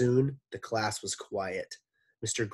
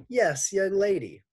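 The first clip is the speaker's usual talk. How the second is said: Mister Gorf voice; 11 semitones higher, 7 dB louder than usual. Acted. Gorf calls on Dee Dee.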